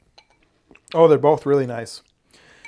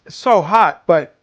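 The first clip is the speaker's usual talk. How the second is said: excited exclamation; 5 semitones higher, 5 dB louder than usual. Real, not acted. Loud reaction to hot tasty soup.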